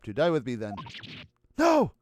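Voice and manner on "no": shout. Real, not acted. Reacting to bomb.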